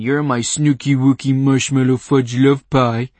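sickeningly sweet. Acted. Playing sickeningly sweet lover.

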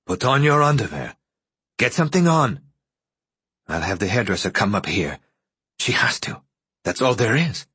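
lightly voiced man taking charge; a touch of urgency in his orders; urgent man. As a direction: lightly play a man hurrying her along. Voices Joe giving hurried orders.

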